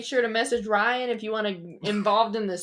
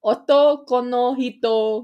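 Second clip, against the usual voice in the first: Otoko no hito said slowly and loudly in an anime voice; 6 dB louder, slower than usual. Pretend. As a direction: Otoko no hito corrected, each syllable drawn out. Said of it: "I'll say 'em in my anime voice".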